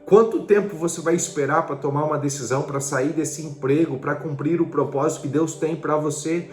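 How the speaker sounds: urgent, insistent preacher's challenge; impassioned preaching. Real, not acted. Preacher challenging listeners about waiting, urgent and insistent. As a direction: press each question home with rising urgency.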